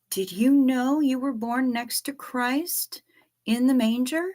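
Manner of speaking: put-on baby talk to pet. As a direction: coo at her like a tiny puppy. Cooing praise to a pet.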